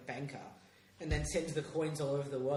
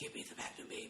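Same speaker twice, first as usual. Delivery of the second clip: menacing whisper, barely voiced, very hushed. Co-host pitching how a character should say his line, mock menacing whisper. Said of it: "whispering menacingly".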